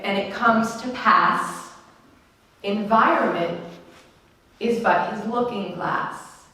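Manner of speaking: slow, measured recitation with falling phrase ends; quotation reading. Acted. Speaker reads an inspirational quote to the room, measured recitation. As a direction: read it slowly, letting each phrase settle.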